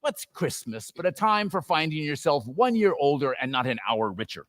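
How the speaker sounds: a hint of a sneering old miser; scornful Scrooge. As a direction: grumble with disdain. Scrooge rants about Christmas.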